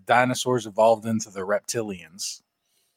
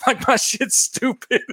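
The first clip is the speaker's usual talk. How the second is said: imitating Joe B; 9 semitones higher than usual. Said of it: "It's like".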